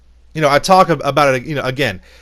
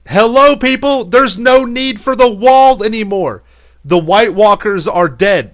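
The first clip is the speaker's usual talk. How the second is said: higher and louder, exasperated; exasperated rant; 4 semitones higher, 3 dB louder than usual. Real, not acted. Ranting to viewers about the pointless wall, exasperated and loud. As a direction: hammer home how pointless it is.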